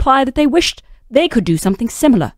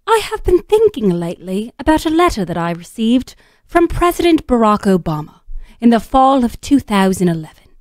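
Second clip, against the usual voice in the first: put-on reading in a female British accent. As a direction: read it like a prim British essayist. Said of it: "her to assume the persona of Rebecca Mead".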